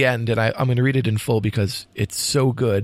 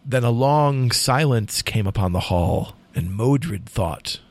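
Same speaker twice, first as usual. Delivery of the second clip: dramatic poem reading. A narrator's reading. Host reads the final lines to co-host, dramatic poem reading. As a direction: read the tale as solemn storytelling verse. Reads poem's ending aloud.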